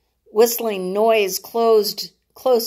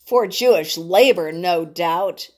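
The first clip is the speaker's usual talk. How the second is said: growl; 3 semitones lower than usual. Acted. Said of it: "Jonathan added with a growl".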